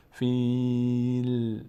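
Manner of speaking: فیل with a silent lam at the end, no vowel after it; correct fil. Shown as a demonstration. Teacher showing students the right ending. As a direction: stop dead on the lam of فیل. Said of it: "لام حرکت پیدا نکنه".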